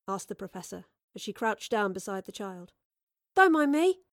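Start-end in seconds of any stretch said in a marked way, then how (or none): 3.3-4.0 high, loud, chipper voice; cheeky, lifted call; chirpy passer-by. Acted. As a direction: chirp it out breezily in passing. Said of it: "said a chirpy voice".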